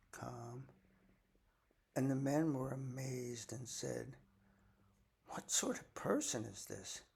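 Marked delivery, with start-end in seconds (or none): 5.3-7.0 breathless, hushed amazement; awed whisper. Acted. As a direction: whisper it in wonder. Amazed disciples whisper in awe.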